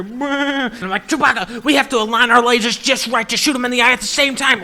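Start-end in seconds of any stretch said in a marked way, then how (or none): 1.1-4.6 loud, raised-pitch shouted order; rally your co-pilot over the noise; urgent battle command. Acted. Pilot ordering Chewbacca to align lasers, urgent shout.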